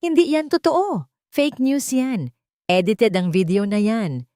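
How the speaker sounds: high, loud frantic denial; hysterical denial. A narrator's reading. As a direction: scream it as if losing your mind. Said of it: "Pagwawala ni Tala".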